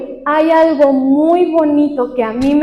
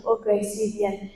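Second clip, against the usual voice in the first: distracted okay; 3 semitones lower, 11 dB quieter, slower than usual. Parent absently agreeing to child.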